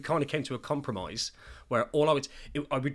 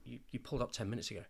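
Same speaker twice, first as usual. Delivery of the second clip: wife's quick complaint; 9 dB quieter, much faster than usual. Retold or imitated. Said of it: "she'd be like".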